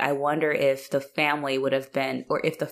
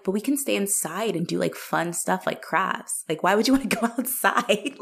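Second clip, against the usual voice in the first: put-on sweet indoorsy girl; 5 semitones higher than usual. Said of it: "I'm like".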